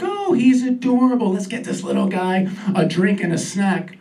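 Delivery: a hint of a doting flight attendant. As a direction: gush like a sweet attendant. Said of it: "Flight attendant comes over, like".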